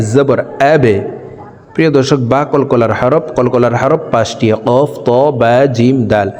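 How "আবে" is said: আবে with a bouncing release on the b; qalqalah bounce. Shown as a demonstration. Teacher spelling for viewers, আবে with a bounced b. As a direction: push the b of আবে into a short echo. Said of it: "অর্থাৎ ধাক্কা দিয়া পড়িতে হয়".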